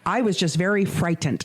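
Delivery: imitated statement leaning on "frightened"; overemphasized FRIGHTENED. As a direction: put deliberate weight on "frightened". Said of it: "She, like, overemphasizes".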